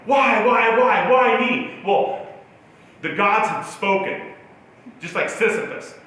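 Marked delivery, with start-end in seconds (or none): 0.1-1.8 loud, drawn-out "why" lament; mock anguished plea. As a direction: wail it at the heavens, louder and slower. Acted anguished questioning of fate.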